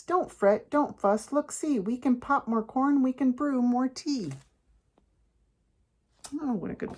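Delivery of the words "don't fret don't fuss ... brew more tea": lightly voiced squeaky mouse; squeaking mouse. A narrator's reading. Mouse comforts the upset bear, lightly squeaked. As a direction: reassure in a slightly raised little voice. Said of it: "Mouse squeaks".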